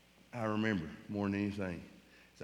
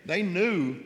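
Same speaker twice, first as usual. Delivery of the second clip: choked up; 7 semitones higher, 6 dB louder than usual. Real, not acted. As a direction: voice rising with held-back tears. Emotional testimony about grieving family.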